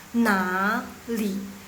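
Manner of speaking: second-tone "na", then falling "li"; changed third tone. Shown as a demonstration. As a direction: lift "na" upward, let "li" drop and stay down. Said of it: "dibaca jadi nada kedua".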